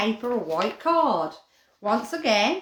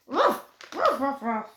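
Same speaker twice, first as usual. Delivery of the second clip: playful dog barks; 3 semitones higher than usual. Pretend. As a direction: bark for the puppy like a game. Barking for the paper dog.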